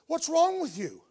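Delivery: high-pitched baffled question; mock-incredulous questioning; acted bewilderment. Passerby questions person studying ants.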